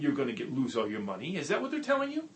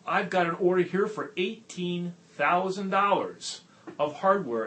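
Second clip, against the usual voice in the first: higher and louder, slower on the big number; thrilled rookie reporting his sale; excited; 7 semitones higher, 6 dB louder than usual. Retold or imitated. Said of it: "and he's excited".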